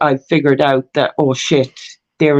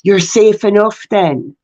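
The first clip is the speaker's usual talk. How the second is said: retold big sigh of relief, higher-pitched; 4 semitones higher, slower than usual. Solicitor hearing they're in uniform, imitated sighing relief. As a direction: imitate someone suddenly relieved. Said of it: "this big sigh of relief".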